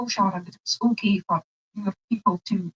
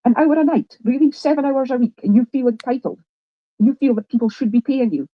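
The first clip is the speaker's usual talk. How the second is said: loud rant; 2 semitones higher, 5 dB louder than usual. Real, not acted. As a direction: lay into her loudly. Heated streamer argument.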